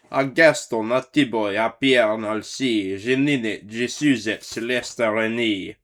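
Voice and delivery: calling out the gators' names loudly; hollering names. Acted. Saint Nick calling his gator team by name, hollering. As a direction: holler each name across the bayou. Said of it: "he whistle and holler and called them by name".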